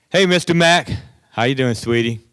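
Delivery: put-on cheerful girl calling out; happy cheerful girl. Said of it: "she's all happy and cheerful".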